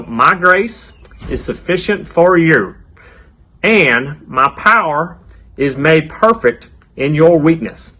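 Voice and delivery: put-on slow cowboy accent with long pauses. Leading kids to repeat the verse after me, cowboy accent. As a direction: lead the repeat in a playful, drawn-out cowboy twang. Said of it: "Give me your best cowboy accent".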